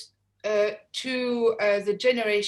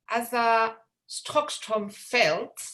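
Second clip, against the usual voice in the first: put-on Swedish accent; much slower than usual. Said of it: "find my best Swedish accent".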